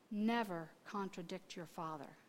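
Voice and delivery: low, soft fatherly admonition; quiet, loving correction. Retold or imitated. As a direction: say it gently but firmly, without meanness. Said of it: "he very quietly looked at her".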